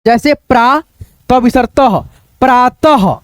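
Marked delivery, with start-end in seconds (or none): 1.8-3.1 प्रातः ending in an audible ह; तह and प्रातः with the final ह sounded out; visarga as h. Shown as a demonstration. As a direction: read प्रातः as प्रा-तह. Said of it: "ह पढ़ देना".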